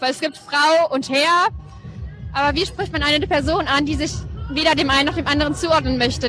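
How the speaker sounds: ordinary delivery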